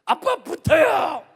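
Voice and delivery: put-on high, loud, slow childish shout; imitating a little son. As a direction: yell it like an eager five-year-old. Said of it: "아들 다섯 살 때".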